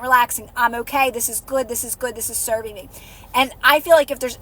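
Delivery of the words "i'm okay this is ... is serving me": calm soft self-talk. Shown as a demonstration. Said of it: "keep getting calm and quiet".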